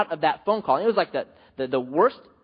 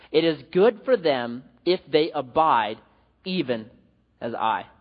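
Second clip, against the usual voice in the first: slow, measured reading of the verse; scripture reading. Acted. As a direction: read the passage solemnly, with weight. Reads scripture aloud.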